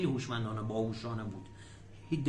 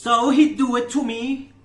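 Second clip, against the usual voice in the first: emphatic repetition; 7 semitones higher, 10 dB louder, slower than usual. Shown as a demonstration. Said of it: "teacher repeats clip line".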